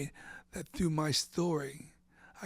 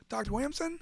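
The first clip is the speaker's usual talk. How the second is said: stunned disbelief; 9 semitones higher, 4 dB louder than usual. Retold or imitated. Disbelief at the doctor's name.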